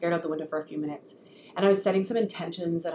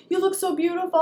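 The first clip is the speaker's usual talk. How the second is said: put-on sweet child voice; 10 semitones higher than usual. Son compliments mom.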